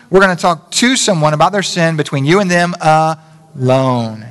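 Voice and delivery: deliberate, stressing to and between you and them alone; slow emphatic repeat. Shown as a demonstration. Pastor repeating the rule to the congregation, slow and emphatic. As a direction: spell out the rule word by word. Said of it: "you didn't say it with me".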